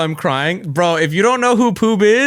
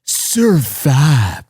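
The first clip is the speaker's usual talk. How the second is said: badly faked Japanese accent; slower than usual. Re-recording trailer audio, struggling mock Japanese accent. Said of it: "oh, I can't do the accent".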